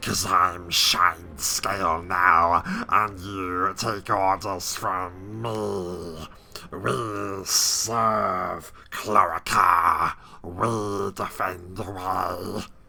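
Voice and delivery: very slow kobold creature drawl, "me" drawn out. Narrating a scene where the leader on a scaffold speaks, kobold voice. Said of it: "doing the kobold voice".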